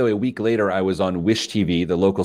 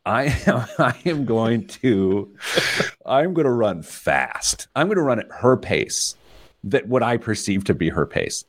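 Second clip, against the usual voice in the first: retold boast; 3 semitones higher than usual. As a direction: pump yourself up, half-laughing. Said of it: "I'm like".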